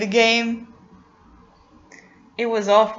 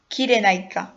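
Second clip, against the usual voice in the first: Kyrenaika said as kee-deh-NYE-ka in a Greek accent. Shown as a demonstration. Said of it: "let me put my best Greek accent".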